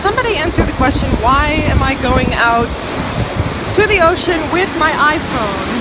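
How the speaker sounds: shouting over waves. Real, not acted. Waves at the ocean.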